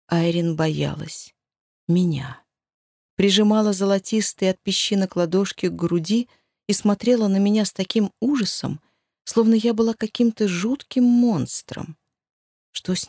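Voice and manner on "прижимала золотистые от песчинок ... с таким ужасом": ordinary delivery, nothing marked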